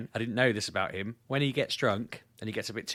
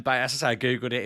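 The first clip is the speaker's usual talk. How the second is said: ordinary delivery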